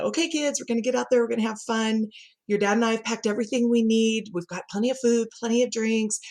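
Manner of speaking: lightly voiced mom briefing the kids; a hint of upbeat parental pep talk; annual mom speech. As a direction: run through the family rules like a rehearsed mom speech. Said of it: "did my annual mom speech".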